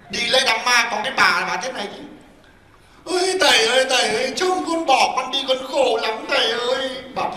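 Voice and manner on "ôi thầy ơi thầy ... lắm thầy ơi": mock mourning wail. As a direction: imitate a widow's put-on keening. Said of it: "Vừa mới đang khóc chồng thương như thế".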